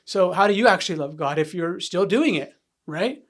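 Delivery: retold heated challenge, building in force; mildly angry, confrontational grilling; arguing angrily. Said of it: "I would argue with the guys".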